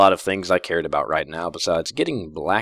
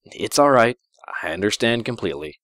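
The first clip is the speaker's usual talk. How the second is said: reassuring; 4 semitones higher than usual. Acted. Princess reassures him.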